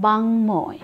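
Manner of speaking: বাংময় as bang-moy, full m; ম sounded. Shown as a demonstration. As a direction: say a clear m after the ng in বাংময়. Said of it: "মকেই আমরা ফিরে পেয়েছি". (বাংময়-এ স্পষ্ট ম উচ্চারণ)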